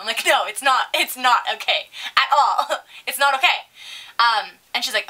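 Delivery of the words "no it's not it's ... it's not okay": retold refusal breaking into a laugh. Server laughing at the mom's excuse, amused refusal. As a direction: laugh in disbelief while refusing. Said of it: "I'm laughing at this woman".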